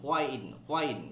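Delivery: "whine" with a breath h before the w, said twice; corrected pronunciation. Shown as a demonstration. Teacher repeating the mosquito's sound, "whine" pronounced hw-ain. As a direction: say each "whine" as hwain. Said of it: "not whine".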